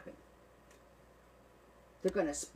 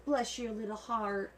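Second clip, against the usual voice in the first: put-on Southern girl accent; 7 semitones higher than usual. Southern mama scolding her meowing cat, drawled. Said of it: "We can't leave the Southern girls out".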